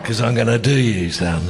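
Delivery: loud mock threat; mock Keating threat. Host and guest trading a famous Keating line, mock menace.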